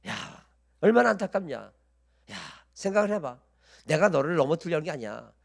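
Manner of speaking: plausible tempter pretending to take the listener's side; feigned sympathy. Satan pretends to side with a suffering believer, falsely sympathetic. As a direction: coax with mock concern and indignation on their behalf. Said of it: "그럴싸하게 내 편 들어주는 척합니다".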